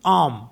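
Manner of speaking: आम said as French homme, silent H, open o; French homme with H dropped; French pronunciation. Shown as a demonstration. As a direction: say आम with no H sound. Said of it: "तो O M M E".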